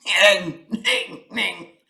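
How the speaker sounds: mock chuckle "Ning, ning, ning"; a light lion's laugh. Lion laughs at the iguana, light chuckle. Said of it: "laughed the lion".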